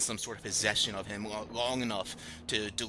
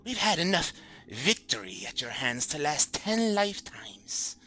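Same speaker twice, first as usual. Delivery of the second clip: high, slow, sarcastic whisper; mock the captain in a sneering whisper; dripping sarcasm; 11 semitones higher, 4 dB louder than usual. Possessed first mate mocking his old captain, sarcastic whisper. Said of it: "with his voice dripping with sarcasm".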